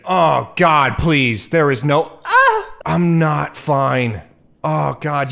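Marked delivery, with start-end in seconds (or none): 0.0-4.2 panicked wail. Real, not acted. Crushing the tarantula in the game, he wails in panic. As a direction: cry out like the spider is right in front of you.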